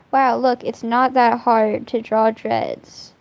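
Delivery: slow, pointed mock amazement; pointed showing-off. Real, not acted. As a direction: show how easy it is, drawn out. Showing up another artist while drawing.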